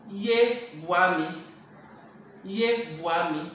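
"Ye Wami" said slowly and clearly; slow demo. Shown as a demonstration. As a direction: linger on "Ye" in "Ye Wami". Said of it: "We say".

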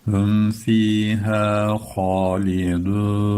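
slow sung chant; Quran recitation. Shown as a demonstration. Teacher chanting the line for students, slow. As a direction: chant "Hum fiha halidun" slowly.

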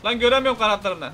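angry shout. Acted. Shouting at car thief scene.

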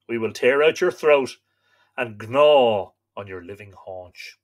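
lightly voiced menacing wolves; wolves' threat. Wolves threatening the stag outside the cave, understated menace. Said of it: "they said".

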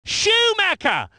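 surname pitched high, falling at the end; excited name call. Acted. Commentator naming Schumacher, high excited call.

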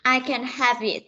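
"have it" run together, V carried into "it"; linked V sound. Shown as a demonstration. Teacher modelling for the class, "have it" joined on the V. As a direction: link "have it" at the end of the sentence. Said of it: "Chúng ta sẽ nối từ âm".

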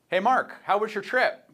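high, loud, drawn-out acted greeting; friendly call-out. Postman to Mark from his car window, acted friendly call-out. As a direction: call it out slowly to a neighbour.

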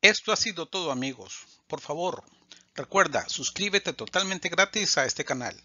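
brisk channel sign-off, fast in places; youtuber outro. Acted. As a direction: rattle off the subscribe plea. Channel outro, subscribe request. (despedida de youtuber rápida)

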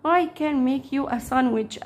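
very slow, clear English for learners; teacher voicing the girl's line, very slowly; slow read-aloud. Shown as a demonstration. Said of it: "قال لها".

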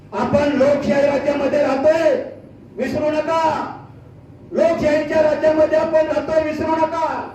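full-force stump speech; rally oratory. Real, not acted. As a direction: deliver a forceful political warning.

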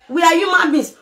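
shouted with the stress on are; angry protest about how people are treated. Real, not acted. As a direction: hit are hard and shout it. Ranting about burial tradition.

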